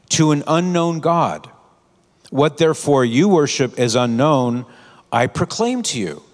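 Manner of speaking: a hint of an orator addressing a crowd; lightly voiced preaching apostle. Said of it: "He says".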